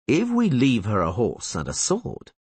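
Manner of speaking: slow lazy drawl; a mild slow drawl, eyes on the girl. Acted. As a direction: stretch it out unhurried. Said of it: "drawled Gisela".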